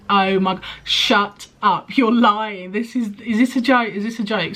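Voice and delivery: mild mock scream of disbelief; retold screaming. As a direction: play the friend who can't believe it. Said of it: "And she was screaming".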